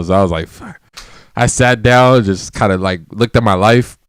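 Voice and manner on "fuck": muttered under breath; deflated quiet curse; defeated mutter. Retold or imitated. Defeated, left alone.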